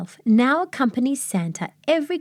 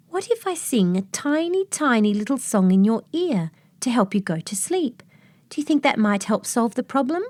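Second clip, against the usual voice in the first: lightly raised, small voice; little elf; 4 semitones higher than usual. Acted. The elf offers the boy a lullaby, in a lightly raised voice. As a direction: offer it kindly like a tiny helper. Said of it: "Tiny's little voice".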